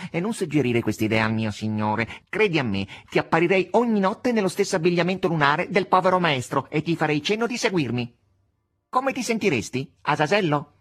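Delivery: high-pitched, theatrical cat warning; a cat threatening to come back and haunt; protesting cat. Acted.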